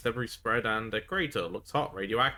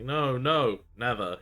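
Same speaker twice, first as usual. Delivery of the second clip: defensive denial; 3 semitones higher, 5 dB louder, slower than usual. Acted. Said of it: "he shouts defensively".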